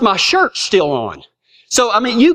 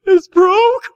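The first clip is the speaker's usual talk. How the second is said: high, louder, alarmed rise; shocked question; 11 semitones higher, 4 dB louder than usual. Retold or imitated. Boy hearing his arm is broken, high alarmed question. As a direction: squeak it out in disbelief.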